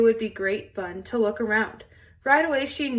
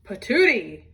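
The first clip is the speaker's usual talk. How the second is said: spluttering cry; 4 dB louder than usual. Acted. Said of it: "cried big old Papa Bear".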